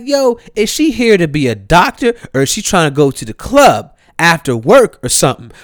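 loud, high, mocking questions; incredulous rant. Son mocking his mom's dressed-up doctor, incredulous. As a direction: rant in disbelief about her outfit.

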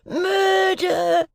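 high desperate cry of murder; calling out. A narrator's reading. Voice on the marsh calling for help, high cry. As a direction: yell it high across the marsh. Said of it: "one voice calling".

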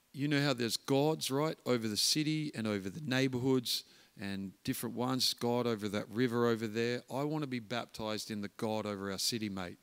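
a hint of put-on New Zealand accent. Gang leader explains gods over the city, mild New Zealand accent. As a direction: lightly imitate a Kiwi gang member. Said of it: "This is my New Zealand accent, not very good".

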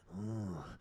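greasy, wordless "ooh"; slimy drawn-out moan. Acted. Comic stopping mid-act to unsettle the audience, slimy moaning. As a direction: let out slow, creepy groans. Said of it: "I get, like, slimy and greasy".

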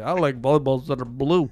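loud, dopey viewer imitation; mock idiot commenter. Viewer running to the comments section, mock idiot voice. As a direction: answer like a mock dimwit. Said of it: "like an idiot".

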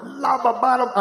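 imitated rant. Father goes off on his son in the car, mock ranting. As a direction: babble out a mimicked telling-off. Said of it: "I went off for ten minutes on him".

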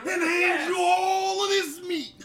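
hammed-up wrestling promo voice; wrestler promo. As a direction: cut a wrestler promo, shouting. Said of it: "You gotta say it in a wrestler voice".

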